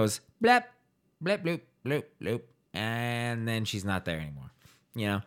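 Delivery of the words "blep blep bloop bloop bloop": high, silly beeps and bloops; mock pump beeps. Mocking the morphine push for friends, silly beeps. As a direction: sound out the pump like a toy.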